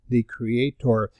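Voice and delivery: Creator said slow and weighty; emphasis on Creator. Shown as a demonstration. Pastor stressing Creator to the congregation, slow and weighty. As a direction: lean on the word Creator. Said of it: "Notice the emphasis on the creation".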